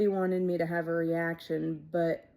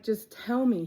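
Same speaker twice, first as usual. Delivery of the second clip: pleading demand; 5 semitones higher, 4 dB louder than usual. Retold or imitated. Begging Eddie to say it.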